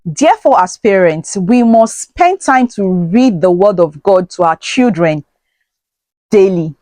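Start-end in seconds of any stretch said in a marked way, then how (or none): 6.3-6.7 daily after a long pause, set apart and stressed. Shown as a demonstration. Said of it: "Let me emphasize on the word daily".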